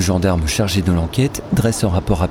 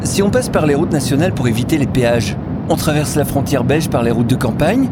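slightly higher questioning woman; lightly voiced woman; 6 semitones higher than usual. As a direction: ask about the route, lightly in character. Woman asks about the route. (voix de femme légèrement interprétée)

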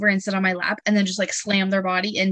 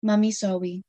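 small apology in a hint of baby talk; toddler saying sorry. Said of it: "And she goes".

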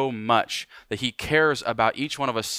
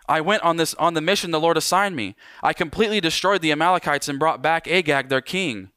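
higher, insistent protest; Saul's defense; 5 semitones higher than usual. Acted. Pastor voicing King Saul insisting he obeyed, a touch defensive. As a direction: protest your innocence a little too hard.

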